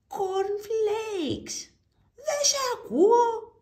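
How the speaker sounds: very high, loud shouted reply; grocer yelling. Acted. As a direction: yell it over the noise. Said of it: "ούρλιαζε ο μπακάλης". (ο μπακάλης ουρλιάζει στον πελάτη)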